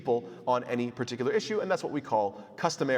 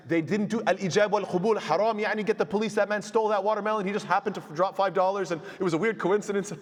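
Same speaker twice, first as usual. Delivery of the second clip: higher, mock indignant complaint; mock outraged accuser; 6 semitones higher than usual. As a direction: play the petty accuser crying foul. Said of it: "nobody can walk back and say".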